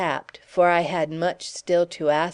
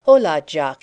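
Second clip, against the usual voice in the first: hearty call; 8 dB louder than usual. A narrator's reading. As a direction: hail him cheerfully. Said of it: "he cried".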